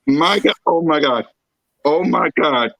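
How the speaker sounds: normal talking voice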